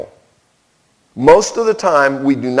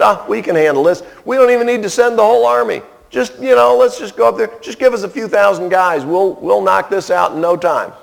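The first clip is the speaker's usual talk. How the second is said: breezy, boastful, a bit higher, fast in the middle; cocky bragging; 4 semitones higher than usual. Retold or imitated. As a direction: play the cocky soldiers who think it is easy. Voicing the cocky army.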